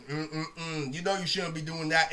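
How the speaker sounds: disapproving tut. Retold or imitated. Guy shaking head disapprovingly.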